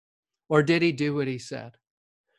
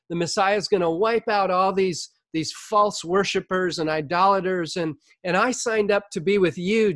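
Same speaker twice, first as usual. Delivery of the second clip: higher-pitched, mildly indignant protest; imitating Peter's rebuke; 4 semitones higher than usual. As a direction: protest as the eager, let-down disciple. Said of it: "Peter's rebuking him".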